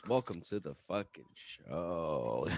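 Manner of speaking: put-on a drunk host opening the show; mock drunk host intro.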